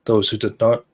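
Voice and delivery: steady, measured horror story reading; story narration. A narrator's reading. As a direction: read it like a campfire ghost story.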